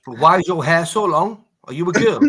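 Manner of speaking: mocking taunt. Mock debate taunt.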